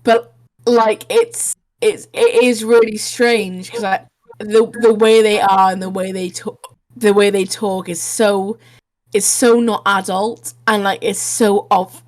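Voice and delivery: tipsy, hiccuping between words. Real, not acted. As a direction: talk like you've had a few drinks and can't stop hiccuping. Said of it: "I'm hiccuping 'cause I'm really drunk".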